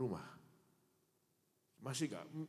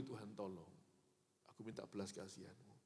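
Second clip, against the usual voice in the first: quiet pleading prayer; 9 dB quieter than usual. Retold or imitated. Prayer in pain at night.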